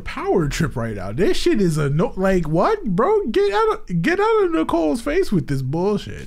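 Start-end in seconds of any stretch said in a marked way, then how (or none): 1.1-6.3 high, outraged defense; indignant. Real, not acted. Defending friend from teacher.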